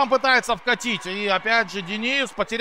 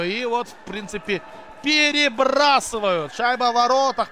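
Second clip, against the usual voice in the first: excited hockey goal call; 3 semitones higher than usual. Real, not acted.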